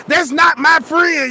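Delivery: upset shout. Retold or imitated. Friend reporting to principal.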